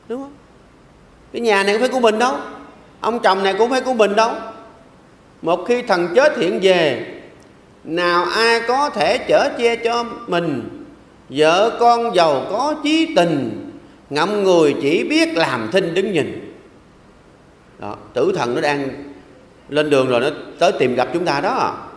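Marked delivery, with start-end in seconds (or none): 5.4-16.6 slow, measured poem recital; solemn slow verse recital; slow recited verse. Acted. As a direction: chant the verse slowly, each word weighed.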